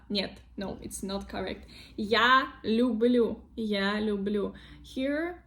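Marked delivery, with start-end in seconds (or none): 2.0-4.5 люблю with soft L, "lyu-blyu"; soft consonants. Shown as a demonstration. Teacher correcting learners, soft L in люблю. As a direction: say люблю softening both Ls. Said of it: "L becomes softer".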